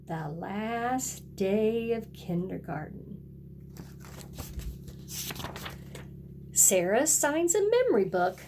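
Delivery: lively picture-book read-aloud with a sing-song refrain; storybook voice for little kids; reading to children. A narrator's reading. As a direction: read it like storytime for a kindergarten class. Teacher reads picture book to class.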